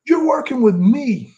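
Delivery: high, slow mock threat; imitating Sid threatening Bobby. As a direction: spell out the punishment slowly. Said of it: "Like that".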